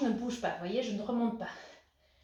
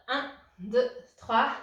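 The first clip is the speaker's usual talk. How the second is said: called-out count; 6 dB louder, much slower than usual. Real, not acted. Coach counting a held squat.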